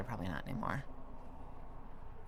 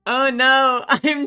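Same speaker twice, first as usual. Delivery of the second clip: loud; 10 semitones higher, 12 dB louder, much slower than usual. Real, not acted. Loud mock alarm.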